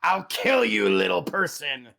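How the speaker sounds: growling hobgoblin. Acted. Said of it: "the hobgoblin looks and just growls".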